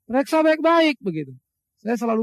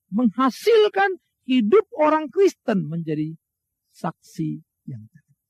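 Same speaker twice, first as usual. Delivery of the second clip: slow preaching shout; much slower than usual. Real, not acted. Preacher's climactic declaration.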